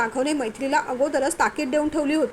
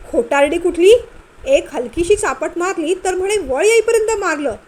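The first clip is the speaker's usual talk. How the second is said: angry scolding; 3 semitones higher, 4 dB louder than usual. Acted. Husband scolds wife, angry.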